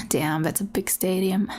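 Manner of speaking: awed whisper under the breath. Acted. Awe at the big stadium.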